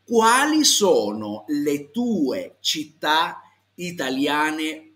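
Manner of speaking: very slow Italian question, word by word; drawn-out, exaggeratedly clear teacher's diction; repeat-after-me model. Shown as a demonstration. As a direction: stretch out every word for learners to copy. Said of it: "giusto per ripeterci".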